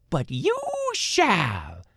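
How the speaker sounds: high, slow, ominous crone; man doing granny voice. A narrator's reading. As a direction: intone it like a witch's curse. Old woman lays curse.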